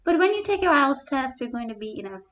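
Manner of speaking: talking through two stacked face masks; muffled through two masks. Real, not acted. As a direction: speak through double masks. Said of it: "you can still hear me perfectly fine".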